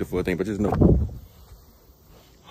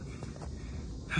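tired sigh; 16 dB quieter than usual. Real, not acted. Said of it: "Boy, I'm tired".

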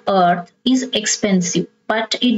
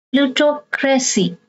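Plutocracy in two careful chunks, pluto-cracy; third-last syllable stressed; 3 semitones higher than usual. Shown as a demonstration. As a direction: sound out Plutocracy with a break before cracy. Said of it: "you stress the third syllable from the".

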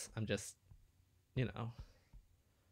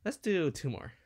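higher and louder hype; pumped up for the next pull; excited; 6 semitones higher, 6 dB louder than usual. Real, not acted. Hyped before summoning.

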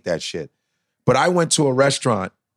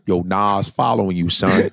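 low troll voice; 6 semitones lower than usual. Retold or imitated. Troll again.

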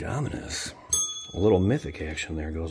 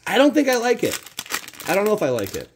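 mock falsetto doubt; 14 semitones higher, 8 dB louder, faster than usual. Sudden falsetto reaction to cards.

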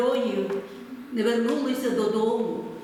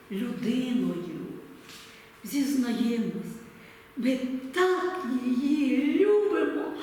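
poem recitation. Acted. Speaking to viewers about Ukraine, recites a poem earnestly. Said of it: "Я скажу поетичними рядками".

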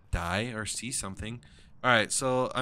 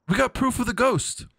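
high, loud excited announcement; exultant; 12 semitones higher, 8 dB louder than usual. Real, not acted. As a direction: shout your triumph. Celebrating proof of the ghost.

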